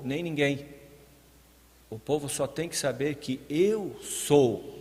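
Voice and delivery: mildly stern God, building in force; somewhat angry God. Acted. God answering Moses about His name, somewhat angry. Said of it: "já meio bravo com Moisés, ele falou".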